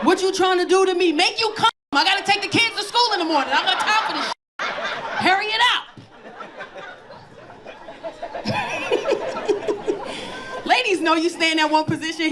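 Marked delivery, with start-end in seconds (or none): 0.1-5.8 exasperated mock complaint. Retold exasperation in bed. 7.6-10.6 squeaky airless laugh; high breathy cackle. Real, not acted. Comic cracking up at her own bit, high airless laugh.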